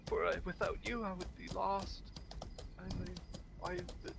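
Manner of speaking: bow and scrape with flowery words; mock formal gratitude. Guest thanking his benefactor in mock old-fashioned formality.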